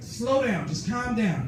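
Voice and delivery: high-pitched attempt to settle someone down; acting out calming a flustered caller; retold coaxing. Coaxing stuttering friend on phone.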